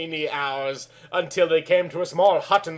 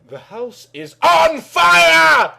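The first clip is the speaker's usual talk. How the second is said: high, loud, slow shout of alarm; 12 semitones higher, 7 dB louder, slower than usual. Acted. Butler wakes Kelly, shouting that the house burns. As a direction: yell it like the house is burning. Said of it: "and the bolter said".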